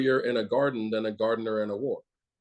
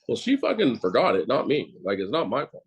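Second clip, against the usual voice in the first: blunt defensive retort; 3 dB louder than usual. Retold or imitated. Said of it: "I'll just say it like that".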